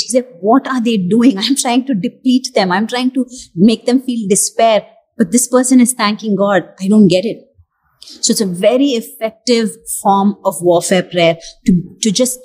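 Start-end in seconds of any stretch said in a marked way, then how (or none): 0.4-7.4 mildly baffled, puzzled questioning; confused enemy. Acted. Enemy puzzled at a believer thanking God, mildly confused. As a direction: voice the enemy's bewilderment, understated. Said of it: "The enemy is confused".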